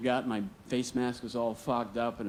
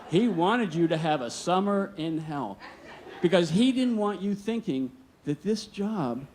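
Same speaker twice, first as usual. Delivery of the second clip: chuckling through the explanation, higher; laughing reveal; 6 semitones higher than usual. Retold or imitated. Foreman confessing the father's scheme to the kid, laughing.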